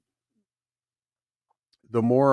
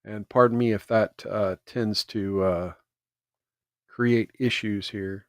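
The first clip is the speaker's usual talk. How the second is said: chewing gum; 3 semitones lower, 3 dB quieter than usual. Real, not acted. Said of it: "I am chewing gum while I'm talking".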